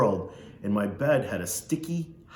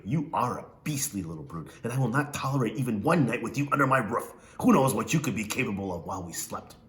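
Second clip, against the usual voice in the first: Missus Amos. Acted. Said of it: "She talked like this".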